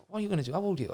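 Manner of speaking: lightly put-on Leicester voice, asking; Leicester accent. Club owner questions a young job seeker, imitated Leicester accent. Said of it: "broad Leicester accent".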